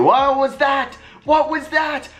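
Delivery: can't believe that play; stunned disbelief. Real, not acted. Stunned by a defensive lapse.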